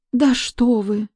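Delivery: a nervous maid protesting; unsure maid. A narrator's reading. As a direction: maid answering the angry guest uncertainly. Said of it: "неуверенно проговорила Оленька".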